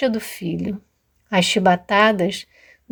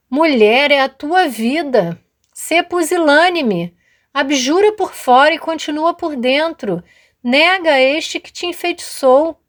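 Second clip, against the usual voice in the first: much higher and louder, insistent pressure; urging soldier; 6 semitones higher, 4 dB louder than usual. Acted. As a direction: lean on her, higher and harder with each line. Soldier urges her to abjure.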